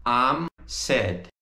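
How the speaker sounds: I'M as one syllable before sad; contracted. Shown as a demonstration. Teacher shows students the contraction, "I'm" in one syllable. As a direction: contract "I am" into a single drawn "I'm". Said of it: "se a gente fosse contrair, ficaria".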